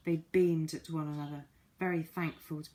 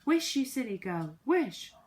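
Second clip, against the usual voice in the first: urgent shout; 6 semitones higher, 6 dB louder than usual. Acted. Moonface urging Fanny.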